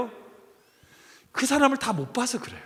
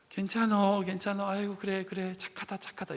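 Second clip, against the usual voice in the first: much softer, gentle soothing; tender comfort; 3 semitones lower, 12 dB quieter than usual. Retold or imitated. Passengers comfort the motherless little boy, soft and tender. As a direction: coo softly to a grieving child.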